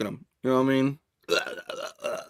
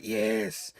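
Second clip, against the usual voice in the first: creepy vermin hiss; much slower than usual. Retold or imitated. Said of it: "they're like".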